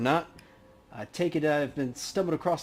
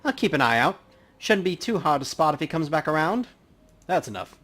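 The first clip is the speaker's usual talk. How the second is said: a little louder, a hint of a cocky cop; casual cop talking to coroner; lightly voiced detective; 2 semitones higher, 5 dB louder than usual. Player holds Justin's voice.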